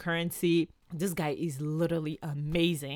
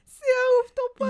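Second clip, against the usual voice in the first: very high, loud exclamation; squeaky high exclaim; 8 dB louder than usual. Real, not acted. Reacting to her friend's story, high squeal. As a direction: squeal it in disbelief. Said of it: "reacting to the story".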